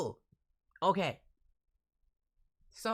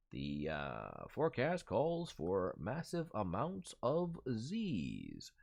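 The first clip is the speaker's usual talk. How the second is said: mock forecaster; 8 semitones lower, 4 dB quieter, slower than usual. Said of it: "accurate forecast".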